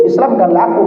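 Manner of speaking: a mother's voice lifted high, begging; mother's plea. Retold or imitated. Dying mother asks son to convert her, pleading lightly. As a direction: mimic the dying mother asking him.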